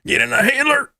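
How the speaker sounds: squeaky high joking shout; high mock call. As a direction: belt it out way up high. Jokey shout of a catchphrase.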